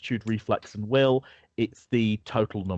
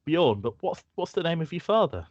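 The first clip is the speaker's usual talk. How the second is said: much higher curious woman; Marion's voice; 8 semitones higher than usual. Acted. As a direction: pitch it up high and ask. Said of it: "She says".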